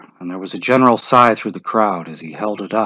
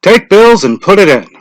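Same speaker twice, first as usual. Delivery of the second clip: directing; 10 semitones higher, 10 dB louder than usual. A narrator's reading. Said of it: "Mister Summers directed".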